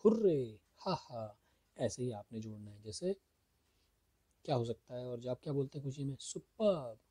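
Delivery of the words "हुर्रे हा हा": happy cheer. Shown as a demonstration. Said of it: "वो words लिखिए जो दिखाते हों कि आप खुश हैं".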